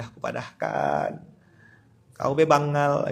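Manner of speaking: slow scolding in Sambas Malay; Sambas Malay dialect. Retold or imitated. Scolding the old man in Sambas Malay dialect. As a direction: drawl it out in home Sambas Malay. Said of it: "kalau bahasa Samba saya".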